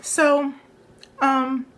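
fighting back tears mid-story; getting emotional. Real, not acted. Telling viewers about therapy, choking up with tears. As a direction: voice rising and wavering near tears. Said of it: "I'm trying not to get emotional".

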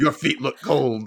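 laughing. Pretend. Joking voiced quote while laughing.

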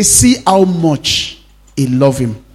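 slow, marvelling quote; slow wonder. Acted. Pastor voicing the onlookers at the tomb, slow wonder. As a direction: savour how much. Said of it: "they say".

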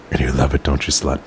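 usual speaking voice

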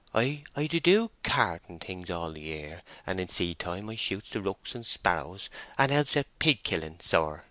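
lightly voiced country labourer, self-effacing; a hint of a bashful rustic; timid rustic farmhand. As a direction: play a humble farm worker answering the mistress. Voices farmhand Joseph Poorgrass.

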